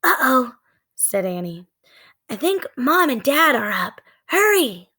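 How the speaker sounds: put-on high, rising girl's urge to hurry; urgent little girl. Annie seeing the light on, urgent and high. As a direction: push him along, alarmed.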